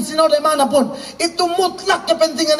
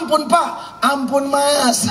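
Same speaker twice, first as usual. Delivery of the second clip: begging for mercy; slower than usual. Retold or imitated. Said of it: "kau bukan bilang".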